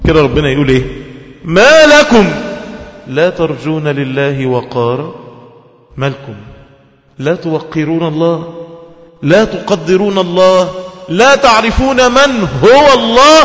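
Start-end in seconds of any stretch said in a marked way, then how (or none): 1.4-13.4 slow, rising preached rebuke; preaching. Acted. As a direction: build the verse to a loud peak. Reciting and preaching verse.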